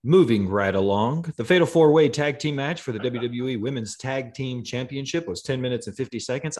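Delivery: booming ring announcer read. Acted. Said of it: "That was like a ring announcer's voice".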